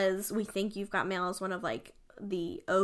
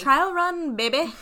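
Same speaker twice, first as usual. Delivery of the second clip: louder, higher playful echo; hyped echo; 4 semitones higher, 5 dB louder, slower than usual. Real, not acted. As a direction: throw it back with glee. Repeats partner's line, hyped up.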